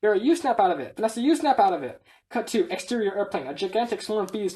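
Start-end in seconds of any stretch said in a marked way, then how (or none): 0.2-0.9 mildly heated comeback; heated acted retort. Slapping quarrel building up. 1.2-2.0 higher, louder squabbling comeback; escalated acted retort. Slapping quarrel at its height.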